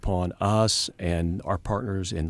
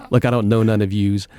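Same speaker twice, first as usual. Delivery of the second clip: louder, lightly imitated Brooklyn accent; 6 dB louder than usual. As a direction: punch it out in mock Brooklyn. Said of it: "in her great Brooklyn accent".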